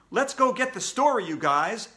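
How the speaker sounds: rally the gang loudly; shouting to friends. A narrator's reading. Alexia rallying the reporters, shouting. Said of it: "Alexia shouted".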